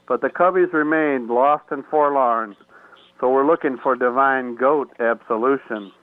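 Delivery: rhythmic rhyming poem recital; reading poem. Acted. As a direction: recite the rhymes with a lilt. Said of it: "I'll read you my poem I wrote for the goat curse".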